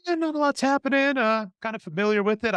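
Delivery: a half-listening couch viewer; bored viewer. Retold or imitated.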